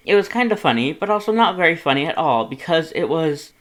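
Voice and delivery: shrill-free indignant big-brother voice, loud and high; loud, indignant Papyrus. A narrator's reading. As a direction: scold your brother with mock outrage.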